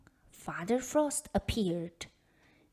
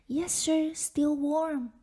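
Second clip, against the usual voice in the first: put-on higher, louder brave little girl; 6 semitones higher, 4 dB louder than usual. A narrator's reading. Elena answering Father Frost, brightly brave despite cold. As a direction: insist cheerfully though freezing. Freezing girl insists politely.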